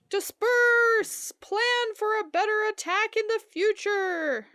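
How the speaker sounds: loud, urgent battle commands; shouted orders. Acted. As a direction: bark orders to scatter. Character orders scattering in smoke.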